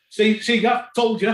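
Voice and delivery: mock told-you-so breaking into laughter; laughing told-you-so. Batsman retelling his bowled-out partner's told-you-so, laughing. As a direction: crack up while imitating the teammate.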